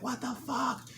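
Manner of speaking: high, loud furious yell at a driver; screaming road rage at the driver who cut him off; Jersey road rage. Retold or imitated. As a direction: cuss him out, full Jersey fury. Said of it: "that's just the Jersey in me".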